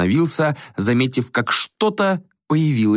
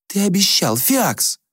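sharp rebuke; 11 semitones higher, slower than usual. Acted. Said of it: "резко одёрнула его принцесса".

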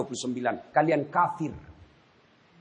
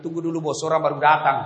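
startled plea; faster than usual. Acted. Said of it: "Kaget dia bilang".

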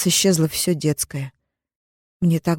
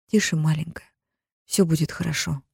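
soft, gentle hush; calm her like a child; soothing; 4 dB quieter than usual. Acted. Zara comforts her sobbing sister, softly.

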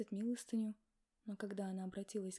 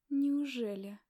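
smirking; 7 dB louder, much slower than usual. A narrator's reading. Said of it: "ухмыльнулась я".

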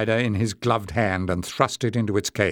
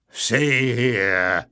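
gruff, only slightly raised call; mild shout; 3 dB louder than usual. A narrator's reading. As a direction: call out roughly without full volume. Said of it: "he shouted".

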